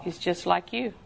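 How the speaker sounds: low, gentle minister's answer; kindly reply. Retold or imitated. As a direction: break it softly and kindly. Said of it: "the minister very kindly said".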